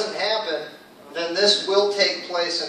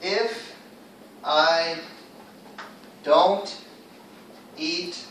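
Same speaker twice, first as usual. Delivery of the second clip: slow, each word set apart by long pauses; deliberate teacher's word-by-word read; 7 dB quieter, slower than usual. Shown as a demonstration. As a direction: lay out every word separately for the class to follow. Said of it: "teacher reads sentence word by word".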